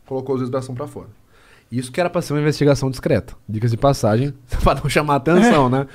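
normal talking voice

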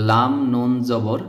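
each letter name drawn out for the class; slow spelling. Shown as a demonstration. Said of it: "আমার দিকে তাকাতে হবে কিভাবে আমি উচ্চারণ করছি". (ধীরে ধীরে বানান)

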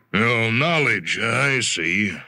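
a hint of a smooth older executive, musing; lightly voiced executive. Executive answering Jonathan over lunch, lightly voiced and musing. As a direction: weigh the word knowledge like a polite boss.

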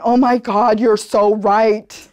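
loud, slow, laughing "oh my God"; mock surprised admission. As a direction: play their stunned agreement, laughing. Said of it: "They went".

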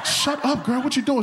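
put-on high, laughing "shut up, girl"; mock hushing shout. To his date at the movies, a high laughing mock shout. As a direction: hiss at her through a laugh, half joking.

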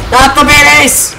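high, drawn-out yelp of alarm; alarmed cry. Real, not acted. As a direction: cry out as enemies appear. Alarmed at enemies in game.

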